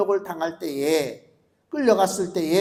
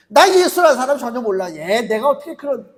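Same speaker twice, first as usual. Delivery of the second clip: louder, vehement denial; angry denial; 4 semitones higher, 6 dB louder than usual. Acted. Peter cursing and denying Jesus, loud and angry. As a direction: swear you never knew him.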